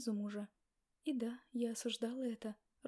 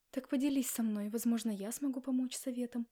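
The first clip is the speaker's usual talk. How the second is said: sincere; 5 dB louder than usual. Acted. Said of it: "искренне предложила мама".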